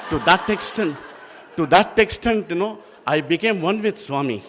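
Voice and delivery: joy spilling over into laughter; laughing with joy. Real, not acted. Joyful memory of riding with Swami.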